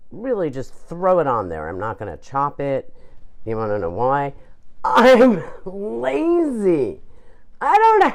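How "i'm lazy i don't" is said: laughing confession. Real, not acted.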